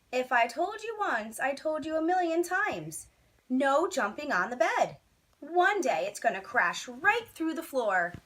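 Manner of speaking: exasperated father telling his son off; stern scolding father. Acted. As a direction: scold him like a tired father who's said it a million times. Father scolding Walter at bedtime.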